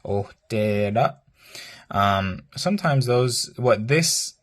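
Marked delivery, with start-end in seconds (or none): 0.1-1.2 "Hojtera" drawn out slowly, the voice falling on the long stress. Shown as a demonstration. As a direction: drag out "Hojtera" and let it fall. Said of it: "your voice kind of falls in a falling tone".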